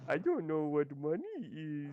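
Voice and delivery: a hint of a dopey Adam Sandler voice. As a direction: do a light dopey Sandler impression. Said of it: "is that Adam Sandler voice".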